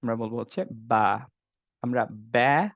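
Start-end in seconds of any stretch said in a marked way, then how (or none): 2.1-2.7 ব্যা with a flattened vowel; wrong ba. Shown as a demonstration. Teacher showing the mistaken ব্যা. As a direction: show the wrong ব্যা sound. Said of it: "বে এগুলো বলবো না".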